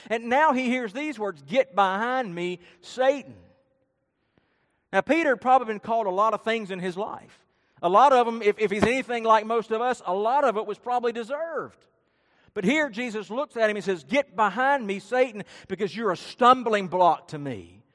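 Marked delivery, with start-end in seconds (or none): 1.4-3.4 slow, emphatic retold command; harsh rebuke. Jesus rebukes Peter, harsh rebuke. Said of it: "I mean, it was harsh". 14.0-17.8 emphatic retold reprimand; harsh rebuke. Jesus looks at Peter and says, harsh rebuke. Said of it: "You know, harsh words".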